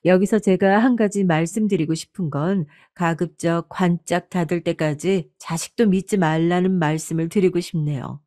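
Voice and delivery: ordinary delivery, nothing marked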